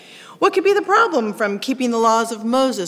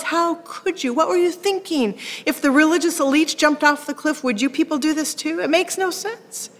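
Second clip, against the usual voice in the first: exasperated; 5 semitones higher than usual. Acted. Preacher voicing exasperated Paul.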